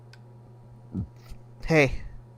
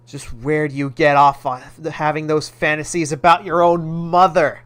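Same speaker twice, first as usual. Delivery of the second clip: louder stern telling-off; scolding mom; 5 dB louder than usual. Acted. Mother scolding her son, louder and stern. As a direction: tear into him like a mother.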